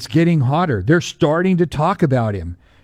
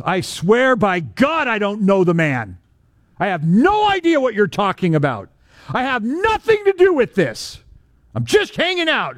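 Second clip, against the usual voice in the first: rising, desperate protest; panicked denial; 5 semitones higher than usual. Retold or imitated. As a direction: deny it all, climbing higher. Peter's frantic denial acted out.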